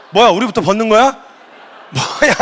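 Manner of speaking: confused bystanders. Acted. Disciples waiting behind Peter, comically confused. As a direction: act out baffled muttered disbelief. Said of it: "뒤에 기다리는 애들이 얼마나 혼란스러워요".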